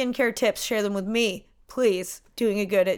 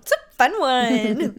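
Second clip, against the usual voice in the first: slow, laughing through the words; 4 dB louder, slower than usual. Real, not acted. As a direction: giggle it out, drawn out. Echo said laughing slowly.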